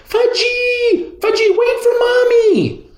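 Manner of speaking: put-on high, loud mother's holler after a runaway toddler; mother chasing her little son, hollering high. A narrator's reading. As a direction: yell after the child to wait.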